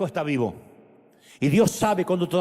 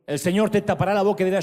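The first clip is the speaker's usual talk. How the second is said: lower, gentle fatherly words; tender voice of God; 4 semitones lower than usual. Acted. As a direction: speak as a loving father calling home.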